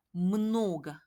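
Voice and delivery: много drawn out very slowly; very slow demo. Shown as a demonstration. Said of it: "라고 하고".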